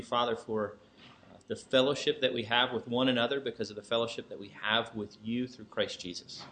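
soft, earnest opening prayer. Acted. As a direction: pray it quietly and earnestly. Opens with a prayer.

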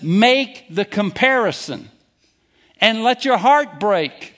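preaching at full force. Acted. Preacher confronting unforgiving listeners.

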